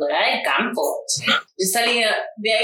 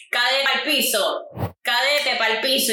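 slow barking sergeant; 3 semitones higher, slower than usual. Retold or imitated. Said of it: "los sargentos".

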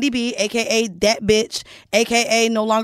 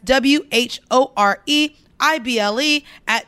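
slow spelled out. Shown as a demonstration. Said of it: "Once again".

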